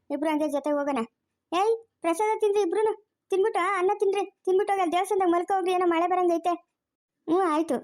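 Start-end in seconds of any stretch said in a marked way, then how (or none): 1.5-6.5 high-pitched call to the pair. Acted. Telling two men to eat and sleep in the temple, calling out. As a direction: call over to them, pitched up.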